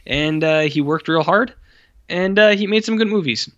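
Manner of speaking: hammy fawning praise of the director; mock gushing actor. Mocking bland actor interviews.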